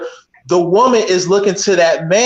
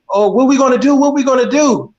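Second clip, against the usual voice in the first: higher, fretful mock panic over a flat tire; panicky woman; 6 semitones higher than usual. Man imitating his panicked girlfriend at a flat tire, fretting. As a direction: imitate a flustered woman wringing her hands. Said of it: "the woman is like".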